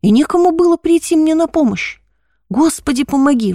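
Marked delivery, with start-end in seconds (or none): 2.5-3.5 мольба. Acted. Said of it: "взмолился я".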